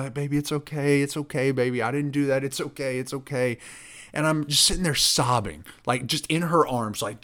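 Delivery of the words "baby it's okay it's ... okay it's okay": slightly raised voice, imitating a soothing wife; consoling. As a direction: repeat it as mild reassurance. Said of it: "like, consoling me".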